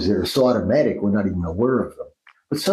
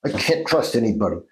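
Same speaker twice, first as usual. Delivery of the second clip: mild demonstrated anger; a touch of anger, said firmly; angry. Shown as a demonstration. Therapist demonstrating a sound exercise on a dream phrase, mildly angry. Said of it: "Say it angry".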